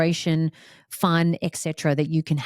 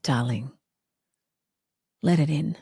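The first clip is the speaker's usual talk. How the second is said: gentle coaxing voice; 2 semitones higher than usual. Retold or imitated. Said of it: "surrender just said".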